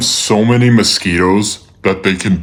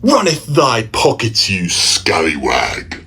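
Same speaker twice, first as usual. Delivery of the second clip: put-on old-timey robber; 2 semitones higher than usual. Robber in alley.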